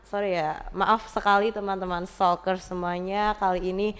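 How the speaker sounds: muffled behind a face mask; through a face mask. Real, not acted. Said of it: "aku harus pakai masker nih".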